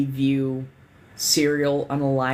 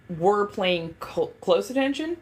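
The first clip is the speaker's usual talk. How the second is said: hiccuping mid-sentence; words broken by a hiccup; 6 semitones higher than usual. Real, not acted. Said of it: "I'm sorry, I got the hiccups".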